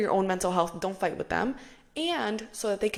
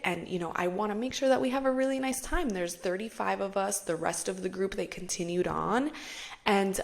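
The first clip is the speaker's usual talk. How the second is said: polite persuasive friend. Retold or imitated. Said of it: "try my best to reenact the way".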